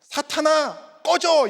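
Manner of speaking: high, loud mock order to get lost; acted angry banishment; harsh dismissal, demonstrated. Shown as a demonstration. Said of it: "이렇게 하시는 게 아니라".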